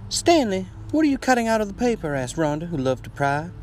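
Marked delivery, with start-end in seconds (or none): 0.1-2.1 high, loud nagging New York wife; pry at him in a New York accent; shrill-free, raised New York accent voice. Acted. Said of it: "That New York accent is, was perfect".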